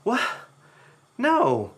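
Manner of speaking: high, loud protesting voice; mock disbelief. Siblings object to mother's new claim, in high mock disbelief.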